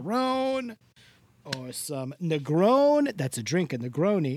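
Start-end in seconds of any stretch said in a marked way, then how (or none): 0.0-3.2 Mister Del Rossi Italian voice. Acted. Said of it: "doing that Italian voice again".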